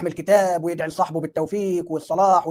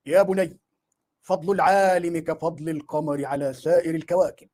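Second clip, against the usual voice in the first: put-on slow, solemn old-scholar voice; Ibn Taymiyya voice; 3 semitones lower, slower than usual. Preacher mimics the sheikh advising the dreamer, slow and solemn. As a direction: intone it like a revered sheikh giving counsel. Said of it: "عرفت صوته بقيت أقلده".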